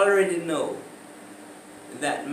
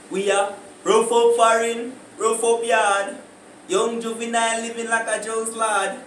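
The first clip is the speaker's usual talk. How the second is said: Jamaican Patois; 4 semitones higher, 3 dB louder than usual. Shown as a demonstration. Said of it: "what me I gonna say now".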